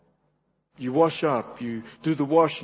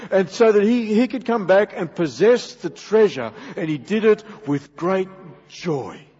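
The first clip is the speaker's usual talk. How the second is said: emphatic, raised sermon delivery; preaching; 5 semitones higher, 5 dB louder than usual. Real, not acted. Preacher telling congregation of the heavenly reward, forceful preaching. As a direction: build the promise with ringing emphasis on key words.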